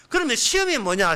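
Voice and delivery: normal talking voice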